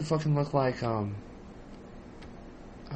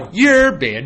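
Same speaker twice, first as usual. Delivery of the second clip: laughing; 9 semitones higher, 14 dB louder than usual. Real, not acted. Laughing, banning friend jokingly.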